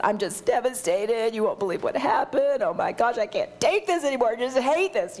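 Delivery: mildly distraught outpouring, lifted at the peaks; retold venting. Retelling a devastated call to her girlfriend, heartfelt venting. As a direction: pour your heart out, lightly acted. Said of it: "pouring my heart out".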